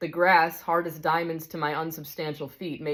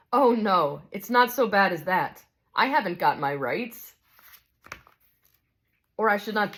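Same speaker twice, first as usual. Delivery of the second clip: a touch higher, calm and kindly; gentle bright spirit; 3 semitones higher than usual. Acted. Bright spirit calmly answers the big ghost, kindly. Dialogue continues.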